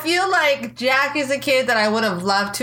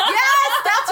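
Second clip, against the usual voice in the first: sudden high yelp of delight; excited; 13 semitones higher than usual. Real, not acted. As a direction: burst out with a laugh. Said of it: "I got so excited".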